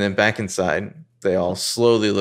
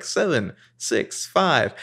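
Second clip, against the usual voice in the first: robot voice; 5 semitones higher, much slower than usual. Retold or imitated. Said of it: "a computer voice starts speaking".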